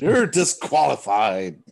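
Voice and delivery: slow and loud, mock official; mock verdict. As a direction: declare it like a judge. Mock ruling on campers.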